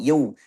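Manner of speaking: "Yau" said as a rounded "yo"; fathah mixed with dhamma. Shown as a demonstration. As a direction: blend the a of "Yau" into u. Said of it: "Fathahnya campur sama dhamma".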